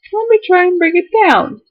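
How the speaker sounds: trying hard not to cry while reading; holding back tears. Real, not acted. Reading her fiance's letter aloud, fighting back real tears. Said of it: "I'm trying really hard not to cry".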